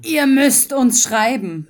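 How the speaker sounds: loud and slow into the mic; shouting into mic. Real, not acted. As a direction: call it out so the mic clips. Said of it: "Schrei nicht so rein, weil dann übersteuert's wieder".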